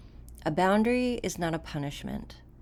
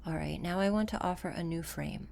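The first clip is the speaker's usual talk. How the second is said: softer, unhurried delivery with long pauses; guided meditation; 5 dB quieter than usual. Acted. Coach guiding listeners to settle into the body, calm guided meditation. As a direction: guide a listener calmly inward, leaving room between phrases.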